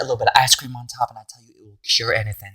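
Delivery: folksy Southern grandma, fast; sweet Southern auntie voice; Southern accent. Acted. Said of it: "Southern accent".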